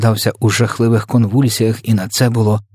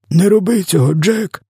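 very high, strained begging; croaking plea; 11 semitones higher than usual. A narrator's reading. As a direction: plead like a giant being throttled. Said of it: "хрипів він". (благання на високих нотах)

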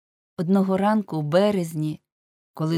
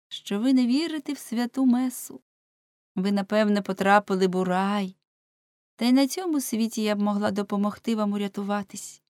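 засмучена служниця; 4 semitones higher than usual. Acted.

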